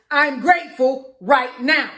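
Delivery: slow, emphatic declaration. Shown as a demonstration. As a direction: say it with fervor. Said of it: "I'ma say it, but I'ma say it louder".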